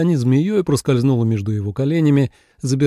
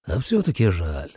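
sighed regret; 6 semitones lower, 5 dB quieter than usual. A narrator's reading. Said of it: "вздохнул".

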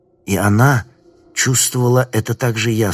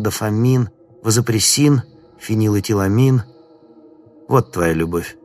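sinister stranger voice; 2 semitones higher than usual. Acted.

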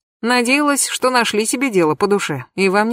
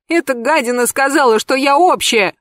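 much higher tearful wail; 6 semitones higher than usual. Acted. Anka wails to Pashka about the insult. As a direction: bawl the complaint. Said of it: "проревела Анька".

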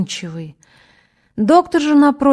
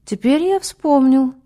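slow, dazed puppet voice; slow, like a dummy; 4 semitones higher than usual. A narrator's reading. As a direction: nod along, dull and slow. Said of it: "медленно, как болванчик".

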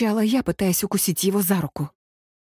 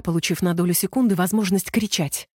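ordinary delivery

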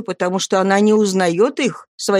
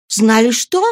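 sharp question; 6 semitones higher, 5 dB louder than usual. A narrator's reading. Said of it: "спросила Матрона".

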